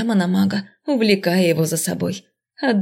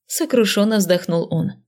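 plain reading voice

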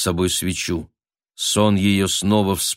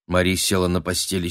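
ordinary delivery

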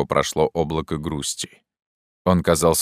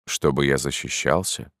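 surprised; 3 semitones lower, 4 dB quieter than usual. Acted. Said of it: "отвечал он с удивлением".

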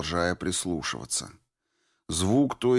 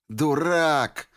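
higher, louder cry of fool; shouted insult; 8 semitones higher, 3 dB louder than usual. A narrator's reading. Norris shouting at the deserter, higher and louder. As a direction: snap it out at him. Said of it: "крикнула Норрис".

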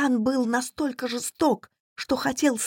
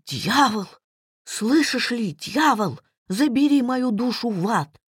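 desperate cry. Acted. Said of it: "выкрикнул из последних сил".

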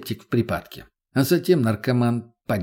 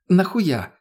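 higher, insistent demand; pushy; 7 semitones higher, 3 dB louder than usual. A narrator's reading. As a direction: press him for an answer. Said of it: "уже более напористо переспросила она".

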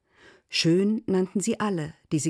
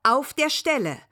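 scolding. Acted. Big sister scolding the twins.

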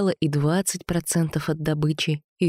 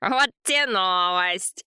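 slow, drawn-out sarcasm; sullen reply; 3 semitones higher, much slower than usual. A narrator's reading. Anton answers Vova's scolding, slow sullen sarcasm. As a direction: drag it out sullenly. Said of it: "хмуро ответил Антон".

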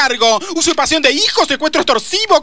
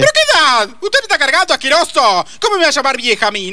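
put-on offended old lady, raised voice; indignant; 2 semitones higher than usual. Offended at being called old.

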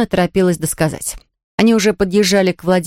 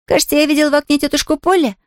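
put-on higher, quick girl's exclamation; excited exclaim; 8 semitones higher, faster than usual. A narrator's reading. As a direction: blurt it out eagerly. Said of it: "воскликнула девочка".

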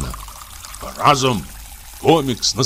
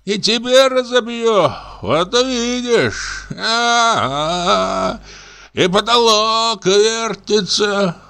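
put-on high, slow drunken babble, voice far from the narrator; a drunk actor raving at the lamp; slurred high drunken rant; drunk comic raving; 11 semitones higher, much slower than usual.

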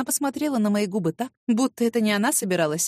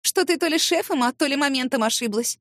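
stern rebuke; 4 semitones higher than usual. Acted. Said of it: "Ого, как я грозно".

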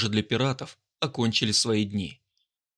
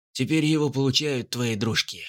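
gloating. Acted. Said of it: "Злорадно улыбнулся".

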